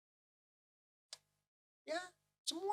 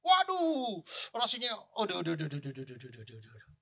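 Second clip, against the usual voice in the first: string of achy "aduh"s sinking away; groaning in pain; 3 semitones lower, 4 dB louder, faster than usual. Retold or imitated. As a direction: yelp from a sore back, then tail off. Reenacts back pain from a misstep.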